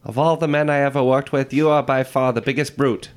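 put-on old Hollywood transatlantic accent, lightly done. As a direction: play an old film star in transatlantic accent. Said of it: "You love that transatlantic accent".

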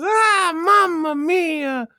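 long opening "Ah", then drawn-out exclamation; hammed-up slow Italian lament; imitating dad. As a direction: stretch every vowel as dad crying out. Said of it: "He goes".

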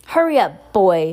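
loud shouted order. Acted. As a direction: bark it at the boy. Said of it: "shouted Uncle Vernon".

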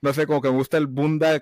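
giggly. Real, not acted. Giggling about liking the word.

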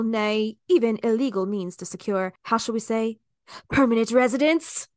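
dramatic reading. Acted. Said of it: "a bit of a mouthful".

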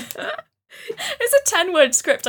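slow, laughing through the words. Real, not acted. Laughs at the plan.

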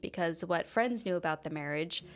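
measured, even podcast storytelling voice; true crime narration. Acted. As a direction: narrate the case calmly over the music. Continues case narration.

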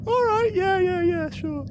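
high, laughing yeah yeah sure; laughing agreement. Real, not acted. Game master giving in while laughing at the player, giggling. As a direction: give in through giggles.

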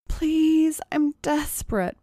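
high-pitched desperate plea; implore, pitched high throughout; pleading. A narrator's reading. Tracy appeals to doubtful Molly, high desperate pleading. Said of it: "pleaded Tracy".

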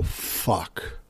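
breathy whispered fuck, voice dropped away; whispered curse. Retold or imitated. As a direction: hiss the curse under your breath. Kid panics in Compton.

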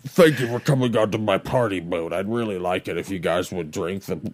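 wheezing creepy host; gasping between words, creepy; out of breath. Acted. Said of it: "the guy who's running out of breath".

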